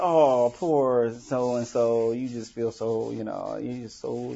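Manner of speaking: slow, fading condescending pity; imitating a condescending sympathizer; mock pity. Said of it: "sympathy is kinda like".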